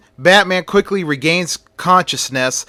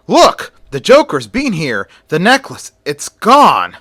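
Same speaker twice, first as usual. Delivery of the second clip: police scream; 3 semitones higher, 4 dB louder than usual. Acted. Police officers shouting at the empty gallery. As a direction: shout the alarm to the others. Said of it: "and scream".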